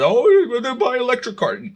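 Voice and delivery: sneering impression of opponents; mocking voice. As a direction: parody their smug reply. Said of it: "so you, people".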